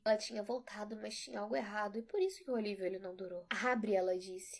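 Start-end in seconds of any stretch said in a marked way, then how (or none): 3.5-3.9 urgent command. Acted. Mother pounding glass, demanding.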